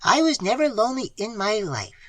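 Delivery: put-on high, sour old woman's retort; sour old aunt. A narrator's reading. Old aunt rebuffing the visitor, sour and high. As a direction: sniff it out sourly, an old aunt. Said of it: "she said sourly".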